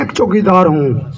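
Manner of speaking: lightly imitated leader, pitched well down; Narendra Modi. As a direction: quote the slogan in a dropped, mocking voice. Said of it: "और मोदी जी क्या कहते हैं".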